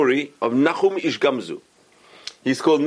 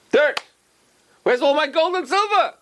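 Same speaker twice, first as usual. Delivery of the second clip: high, shocked outcry; shocked cry. Acted. Rabbi opening his box of treasure to find dirt, shocked.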